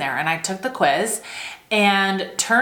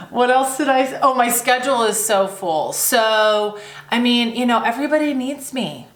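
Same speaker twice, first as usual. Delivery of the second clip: whiny excuse; 3 semitones higher than usual. Retold or imitated. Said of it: "sounded like this".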